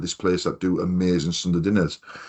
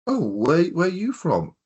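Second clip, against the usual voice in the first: imitated Durham accent; 10 semitones higher than usual. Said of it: "I knew he had a Durham accent".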